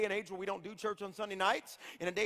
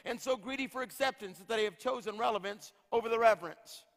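lightly declaimed preacher's reading; prophetic declaration. Real, not acted. Preacher reading a prophetic word to the church, declamatory. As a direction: declare it in firm, rhythmic phrases.

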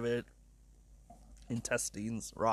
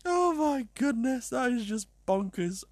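overcome with amusement; 8 semitones higher than usual. Real, not acted. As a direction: let it out high, recovering from laughter. Recovering after laughing fit.

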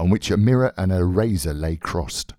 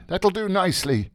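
brisk, higher-pitched instruction; 8 semitones higher than usual. Acted. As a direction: breezily wrap it up with a brisk request. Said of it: "he cried briskly".

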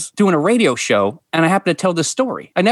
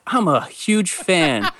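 earnest fan. Retold or imitated. Replays his compliment to a stranger.

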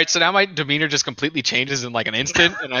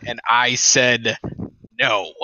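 menacing; 4 semitones lower, slower than usual. Acted. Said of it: "I almost growl a little bit".

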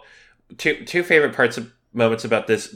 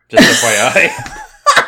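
much higher, slow, laughing; giggly confession; 6 dB louder, slower than usual. Real, not acted. Admitting a fantasy to the cohost, high and laughing. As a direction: squeal it out through a laugh. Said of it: "I've had this fantasy before".

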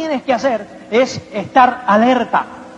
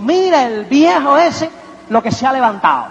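envious sneer. Retold or imitated.

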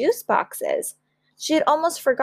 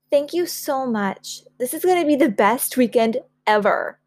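thrilled thanks; 4 semitones higher than usual. Acted. Child thanking both parents for the surprise, thrilled. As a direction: gush with happy thanks.

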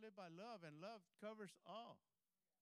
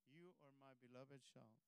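hushed, low and intimate voice; soft near-whisper; 6 semitones lower, 6 dB quieter than usual. Acted. God tells the listener they are his beloved child, soft near-whisper. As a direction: imitate a whisper in the ear, still voiced. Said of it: "A whisper in your ear".

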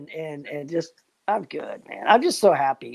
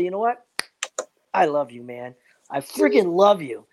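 mirror self-love. Shown as a demonstration. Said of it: "you need to try this".

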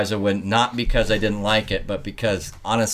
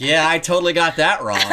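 laughing; 6 semitones higher than usual. Retold or imitated. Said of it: "And I'm like".

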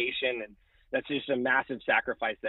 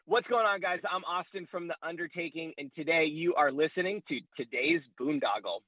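radio promo voice; 3 semitones higher than usual. Shown as a demonstration. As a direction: hype it up like a station promo. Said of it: "just cut a promo I D".

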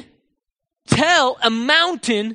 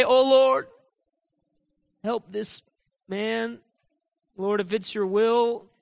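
mock pleading prayer; slower than usual. Preacher parodies praying for the leper, mock pleading. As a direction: plead uncertainly with big pauses. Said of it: "Is this how Jesus talked?".

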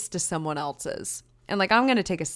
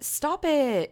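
higher, insistent STOP IT; playful scolding; 9 semitones higher than usual. Real, not acted. Vlogger scolding herself at the camera, mock indignant. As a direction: scold yourself half-laughing.

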